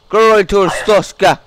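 hammed-up state loyalty; mock patriotic salute. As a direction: hail the nation slowly and grandly. Inspector salutes traveller.

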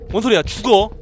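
loud frantic shouting; panicked yell. Real, not acted. Monster chase, yelling.

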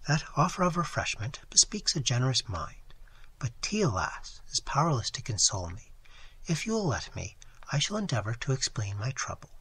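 softly voiced young lady, a hint of sorrow; distressed young lady. Young lady answers Phillips's offer of tea, softly. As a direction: speak gently, pleading for sympathy.

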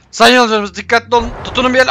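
panicked high shout to passengers; high shouted announcement. Pretend. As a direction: yell the warning as the bus tumbles. Bus crashing, warning passengers.

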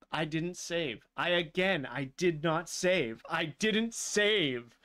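slowing, insistent repetition; building dismay. Real, not acted. Dismay building over lost progress.

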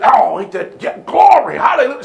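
mock churchgoer shouting glory; hammed-up amen corner cheer; mock congregation response. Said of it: "Y'all should have been just".

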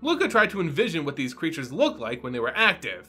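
measured, even storytelling read over music; audiobook-style fantasy reading; story narration. A narrator's reading. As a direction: draw listeners into the tale. Reads fantasy story aloud.

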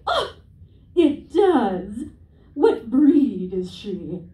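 a lightly voiced prying mother; nosy mom. Nosy mom asking the comic's dog breed, slow.

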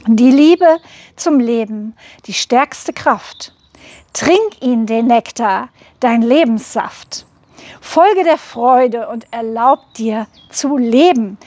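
measured, lilting verse with pauses between phrases; poem recitation. Acted. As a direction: recite a rhymed blessing, lifting each line then letting it settle. Recites her rhymed soul message.

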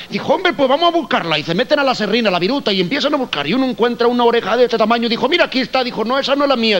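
high, Spanish Galician voice; Galician Spanish accent. Retold or imitated. Two gallegos chatting in a high Spanish accent. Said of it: "un gallego".

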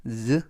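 "즈" with a voiced z; voiced Z sound. Shown as a demonstration. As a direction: say "즈" as a buzzing z, not s. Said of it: "S는 이번 단어에서 스가 아니라".

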